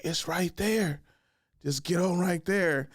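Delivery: unbothered, drawn-out directions; coolest voice. Retold or imitated. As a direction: point the way with no urgency. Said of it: "in the coolest voice".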